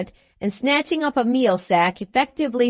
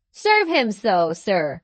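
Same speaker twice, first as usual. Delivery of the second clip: slow, pressing and louder; slower than usual. Acted. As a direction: drag it out to provoke him, slowly. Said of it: "in a louder voice than before".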